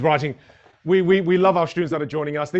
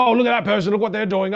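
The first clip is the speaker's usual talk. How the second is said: bitter complaining; 5 semitones higher, 3 dB louder than usual. Pretend.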